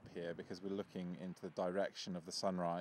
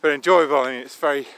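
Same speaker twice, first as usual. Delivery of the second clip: cold numb lips, slurring slightly; 4 semitones higher, 15 dB louder than usual. Real, not acted. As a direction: talk through frozen numb lips. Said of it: "struggling to talk properly 'cause it's cold and my lips are numb".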